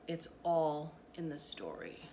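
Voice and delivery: slow, hushed whisper; mysterious whisper. A narrator's reading. Nanny hushes the curious girl, slow mysterious whisper. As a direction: lean in and breathe it like a secret.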